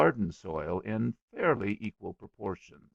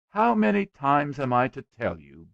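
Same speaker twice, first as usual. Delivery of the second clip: loud, higher scolding bellow; 4 semitones higher, 7 dB louder than usual. A narrator's reading. Father scolding his son about sweets, bellowing. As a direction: bellow it like an exasperated parent. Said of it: "bellowed William's father".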